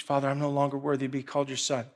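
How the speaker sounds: quiet, quick rehearsed line; rehearsing under breath. Retold or imitated. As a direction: murmur the speech to yourself. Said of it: "rehearsing this speech".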